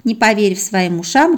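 plain reading voice

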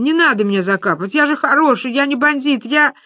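high whining plea; whimpering. A narrator's reading. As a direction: beg like a frightened schoolboy. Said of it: "захныкал пацан". (жалобно хныча)

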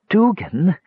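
high, desperate appeal; high anxious call. A narrator's reading. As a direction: plead urgently by name. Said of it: "Palin said desperately".

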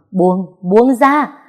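slow, loud yell to let go; struggling shout. Acted. Heroine struggling in his grip, loud slow shout. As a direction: wrench free and shout it. Heroine fighting to break free.

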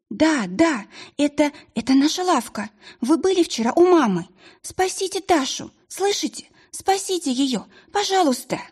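high, breathless begging; plead, barely holding together; frantic pleading. Acted. Panicked girl begging the witch to save her sister.

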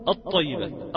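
"الطيبات" with the lam silent and the ط doubled; assimilated lam. Shown as a demonstration. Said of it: "تقول".

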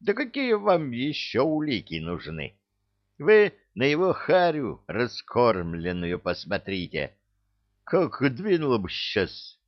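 high, heated outburst; angry outburst. A narrator's reading. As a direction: blurt it out in anger.

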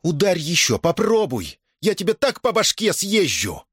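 Дашутка daring the merchant, holding the oven fork; threatening. Acted. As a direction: dare him to strike again. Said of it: "она угрожающе сказала".

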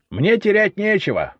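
high, strained voice near breaking; on the verge of snapping; ringing voice. A narrator's reading. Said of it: "По его звенящему голосу". (звенящий, срывающийся голос)

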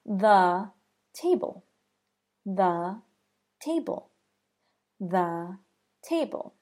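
"the table" with "the" as a short "thuh"; thuh before a consonant. Shown as a demonstration. Teacher modeling the phrase three times, "the" as thuh. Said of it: "it's pronounced the".

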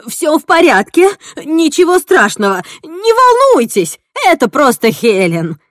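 high and loud, growing panicky; a loud, high cry of mounting panic; rising panic. Acted. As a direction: reassure while the panic climbs. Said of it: "с нарастающей паникой в голосе".

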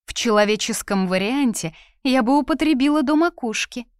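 high, loud, playful teasing; amused. A narrator's reading. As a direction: say it as if about to laugh. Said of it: "рассмеялась эльфийка". (весело, как сквозь смех)

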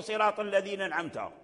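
أنعمت with the nun dropped; the faulty أنعمت, nun swallowed; wrong reading. Shown as a demonstration. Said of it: "هذا لحن".

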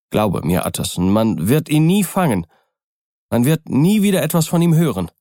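a frightened doctor's oath rising to a rush; anxious, nervous. Acted. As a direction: swear it in nervous haste, pitch climbing. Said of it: "Das Beängstigte, Nervöse in Jekylls Sprache".

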